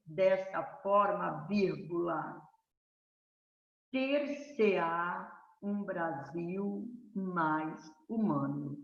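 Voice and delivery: slow, deliberate dictation, "ter-se-á" drawn out. Shown as a demonstration. Teacher dictates a model essay conclusion to students, slowly. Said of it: "Tá vendo?".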